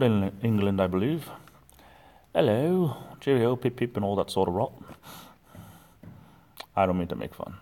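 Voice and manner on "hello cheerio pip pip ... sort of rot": hammed-up British accent, high on hello; cheery jab at a British accent; mock British accent. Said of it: "I try to do accents".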